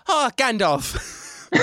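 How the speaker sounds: high, drawn-out hobbit exclamation; slow, hammed-up movie-accent impression; Elijah Wood. Podcast host as Frodo greeting the wizard, hammed-up slow impression. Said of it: "he kind of does my favorite".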